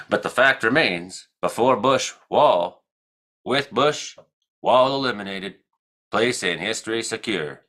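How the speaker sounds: lightly voiced halting old president; a hint of a folksy statesman; George Bush Senior impression. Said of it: "better than doing George Bush Senior".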